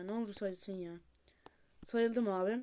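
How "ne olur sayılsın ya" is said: whispered prayer; whispered plea. Real, not acted. Gamer begs the game to count it, whispered plea. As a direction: plead without voice.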